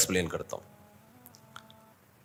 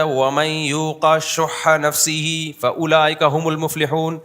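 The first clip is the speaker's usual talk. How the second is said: Quran recitation. Acted. Quotes Quran.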